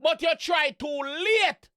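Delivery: shouted slow lyric. Real, not acted. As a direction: drag out too late with a shout. Echoing lyric loudly.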